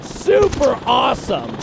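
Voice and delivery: slow, dry sarcastic drawl; deadpan it after dying. Real, not acted.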